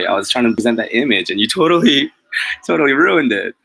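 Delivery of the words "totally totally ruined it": louder, laughing mock protest; laughing complaint. Real, not acted. Vlogger laughingly blaming Nicole for ruining his image.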